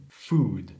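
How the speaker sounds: "Food" with a long back OO, low; tongue back, lips nearly closed on "Food"; correct long OO. Shown as a demonstration. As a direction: stretch the vowel of "Food". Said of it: "la langue en arrière et la bouche".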